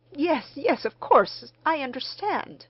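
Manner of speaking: mildly hurried appeasement; hasty conciliation. A narrator's reading. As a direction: break in quickly to smooth things over. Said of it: "as if in hasty conciliation".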